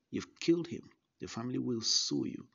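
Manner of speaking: a retold doctor's shocked outburst; alarmed shout. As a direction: cry it out like a frightened doctor. Doctor panics at apparent death.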